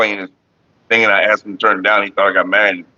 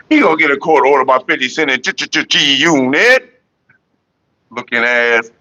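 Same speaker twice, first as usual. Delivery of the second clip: playful riff repeated. Pretend. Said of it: "when you said it like that".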